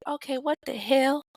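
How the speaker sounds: high, disbelieving what the hell; incredulous. Retold or imitated. Husband sees his wife's ex has her tattoo, incredulous. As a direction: thrown by the tattoo, half laughing.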